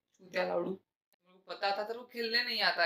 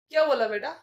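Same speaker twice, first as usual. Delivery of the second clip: sharp, louder what-did-you-say; an uncle who overheard the insult snaps back, angry and louder; angry confrontation; 7 dB louder, faster than usual. Acted. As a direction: catch the kid out, bristling.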